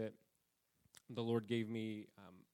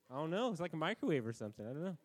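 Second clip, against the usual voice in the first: higher, louder, sheepish fibbing; mock Aaron, high and loud; Aaron's excuse; 6 semitones higher, 4 dB louder, much faster than usual. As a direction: play the caught brother making it up. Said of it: "Aaron had to tell Moses".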